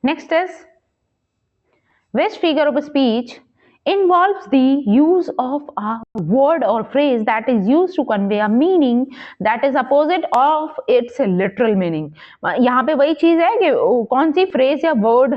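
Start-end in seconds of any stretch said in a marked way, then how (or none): 2.2-12.1 slow, measured question read-out. Acted. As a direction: read the exam question out slowly, word by word. Reads quiz question aloud.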